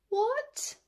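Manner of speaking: high startled what; shocked what. Acted. Cub hearing the show is cancelled, shocked. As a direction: gasp it in disbelief.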